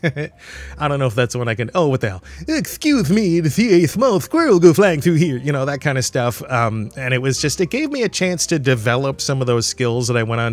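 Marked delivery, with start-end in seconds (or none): 2.5-5.4 high cartoon moose voice, pitch swinging up and around. Showing one of the voices he learned to do, a Bullwinkle the Moose voice. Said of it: "Bullwinkle the Moose was one that I did a lot".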